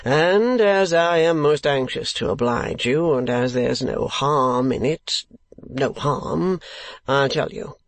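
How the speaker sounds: slow, measured show of reluctance; feigned reluctance. Acted. Ralph agreeing to tell his client, feigned reluctance. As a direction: draw out the giving-in as if unwilling. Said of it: "with feigned reluctance".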